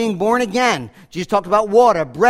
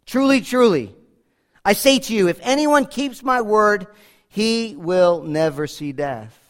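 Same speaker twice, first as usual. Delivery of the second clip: solemn emphatic. Shown as a demonstration. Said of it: "solemn, emphatic, unarguable".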